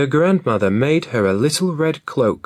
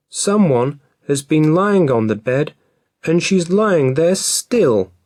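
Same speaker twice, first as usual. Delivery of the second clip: put-on high, louder baby bear cry; little baby voice crying out; 6 semitones higher, 4 dB louder than usual. A narrator's reading. Baby Bear discovering Goldilocks in his bed, high and loud. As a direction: cry out like a tiny cub. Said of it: "he cried in a little baby voice".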